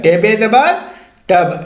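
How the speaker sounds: letters and mark टेबे ज़बर first, then the joined word टब; spelling-out demonstration. Shown as a demonstration. Teacher shows learners how to read, spelling out टेबे ज़बर टब. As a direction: say टेबे ज़बर on a rising tune, pause, then टब. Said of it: "ऐसे आप पढ़ेंगे".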